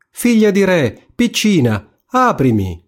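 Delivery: high, insistent call at the door. A narrator's reading. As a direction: call out high as the pleading frog. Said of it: "si udì bussare per la seconda volta e gridare". (richiamo acuto e insistente del ranocchio)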